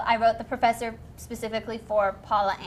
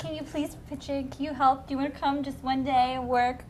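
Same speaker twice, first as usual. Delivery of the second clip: put-on begging in Texas accent; 2 semitones higher, 5 dB quieter than usual. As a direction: ask a favor with a Texas twang. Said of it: "Enhancing the Texas accent to go into beg".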